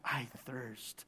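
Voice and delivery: low, soft, sorrowful telling; hushed agony. Acted. Preacher telling of Jesus' pain, hushed and grave.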